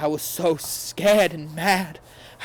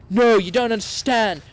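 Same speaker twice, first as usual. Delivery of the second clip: higher, louder, desperate plea; pleading lover, higher and louder; 6 semitones higher, 5 dB louder than usual. A narrator's reading. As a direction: beg him to listen. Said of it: "Draco pleaded".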